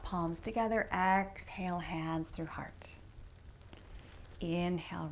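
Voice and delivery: drawn-out, measured inhale and exhale cues; calm instructor pacing the breath; yoga breath cues. Real, not acted. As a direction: guide the movement breath by breath, pausing between. Leads breath-timed yoga movements.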